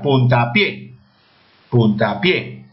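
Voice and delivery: "Puntapié" with the weight on the final PIÉ; stress on last syllable. Shown as a demonstration. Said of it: "Dónde lleva la mayor fuerza de voz". ("Puntapié" con la fuerza de voz en PIÉ)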